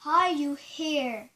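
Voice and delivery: spirit summoning. Pretend. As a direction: call out to a spirit, drawing out the question. Calling a spirit in challenge.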